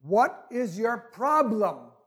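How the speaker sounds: slow, drawn-out question from above; lightly voiced calm, deliberate voice; deep calm voice. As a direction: ask it slowly and evenly. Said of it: "calm voice said".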